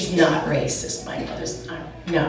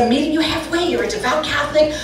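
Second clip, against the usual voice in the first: higher-pitched, reasoning daughter; calming explanation; 6 semitones higher, faster than usual. Retold or imitated. Daughter calming her devout Catholic mother, placating. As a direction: plead gently without raising the volume. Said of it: "I had to calm her down".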